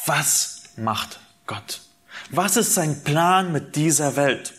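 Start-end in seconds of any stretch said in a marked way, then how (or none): 0.1-1.8 slow, quiet question with "was" leaned on hard; stress on was. Shown as a demonstration. Preacher to congregation, slow quiet stress on "was". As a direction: draw out "was" and let "macht Gott" fall softly. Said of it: "die richtigere Frage wäre".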